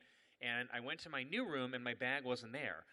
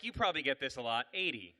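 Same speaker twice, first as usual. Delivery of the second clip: quick, offhand delivery, dropping at the end; breezy mock nonchalance; casual; 5 dB louder, faster than usual. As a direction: rattle it off as if routine. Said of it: "Just casual".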